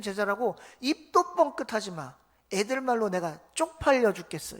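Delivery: scolding Jesus. Retold or imitated. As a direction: scold them like a fed-up teacher. Jesus voiced scolding disciples. (제자들을 꾸짖는 예수님, 답답한 호통)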